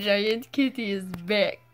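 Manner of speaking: slow mock Russian accent. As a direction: draw it out in a put-on Russian accent. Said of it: "Why are we all talking in Russian accents?".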